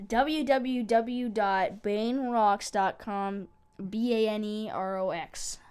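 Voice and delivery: slow, deliberate web address read-out; slow announcer-like dictation of the address; spelling out. Real, not acted. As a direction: give each letter and word its own beat.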